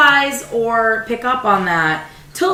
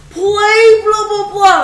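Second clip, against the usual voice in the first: pushy request; 10 semitones higher, 5 dB louder, slower than usual. Retold or imitated. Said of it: "people to be like".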